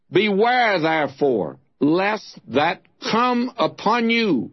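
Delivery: declaimed Bible passage, slightly lifted and sustained; solemn scripture reading. Acted. Preacher reads Paul's sermon from Acts, in declaimed scripture style. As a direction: proclaim the verses with measured phrasing.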